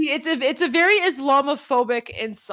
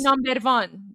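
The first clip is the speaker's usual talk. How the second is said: roughly attempted Persian accent on "number one"; amateur Persian accent; slower than usual. Shown as a demonstration. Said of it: "that is my Persian accent".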